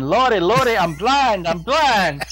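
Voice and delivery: imagined woman in the dark shower, hammed-up wailing; mock screaming woman. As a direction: ham it up like a churchgoer struck blind. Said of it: "I'm surprised she wasn't screaming".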